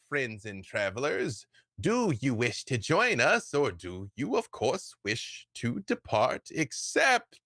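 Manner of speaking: booming, slow sermon-like call to the crowd; cult woman's proclamation. Acted. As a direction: proclaim it grandly to the whole plaza. GM voices cult woman addressing party.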